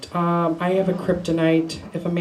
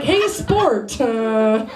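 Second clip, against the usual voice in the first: sassy put-down; 3 semitones higher, slower than usual. Retold or imitated. Her sassy put-down of date.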